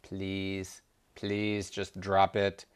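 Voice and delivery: soft, slow plea; quiet, slow pleading; pleading Shiva. Acted. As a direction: beg her gently to let it go. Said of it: "Shiva said".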